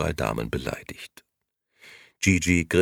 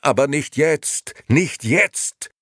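loud, high, frustrated plea; strained, high protest; exasperated groan; 11 semitones higher, 6 dB louder, slower than usual. A narrator's reading. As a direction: insist desperately, out of patience. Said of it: "stöhnte Gigi".

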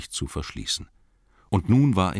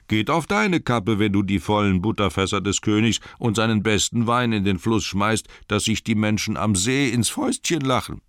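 mocking elves; 5 semitones higher, 4 dB louder than usual.

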